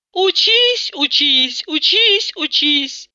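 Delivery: mock nagging, repeated; lightly voiced nagging mother. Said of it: "Толдычила с утра до ночи".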